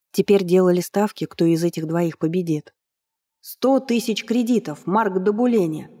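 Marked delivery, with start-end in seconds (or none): 3.4-5.9 high, slow shouted announcement; ringmaster shout. Acted. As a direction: cry it out to the hall. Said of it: "раздался выкрик конферансье".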